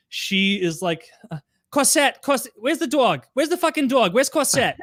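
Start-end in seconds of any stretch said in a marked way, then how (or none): 1.7-4.8 high, panicked calling for the dog; frantic girlfriend. Retold or imitated. Girlfriend searching the house for her dog, high frantic call. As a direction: shout for the missing dog, voice pitched up.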